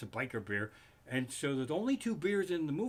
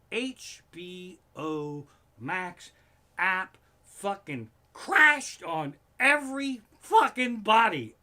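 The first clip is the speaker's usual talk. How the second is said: angry outburst; 2 semitones higher, 7 dB louder, slower than usual. Real, not acted. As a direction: shout it out in disbelief. App crashed at finale.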